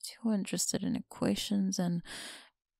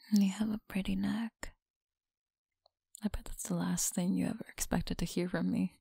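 teasing close whisper; breathy whisper to a listener; faster than usual. Acted. Whispered tease.

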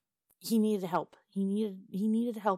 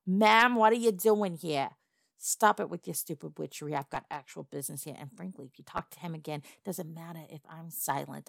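goblin threat. Acted. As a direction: lay it on, menacing the fishy madam.

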